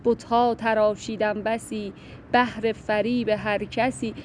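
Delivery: slow, measured verse reading; poem recitation. Acted. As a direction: recite the couplet slowly, each word weighed. (شعرخوانی آرام و شمرده)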